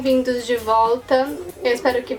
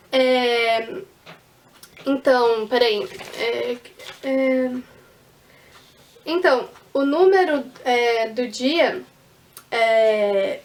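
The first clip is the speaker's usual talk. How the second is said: faltering hesitant speech; 2 semitones lower, much slower than usual. Shown as a demonstration. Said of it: "E o que que eu fazia?".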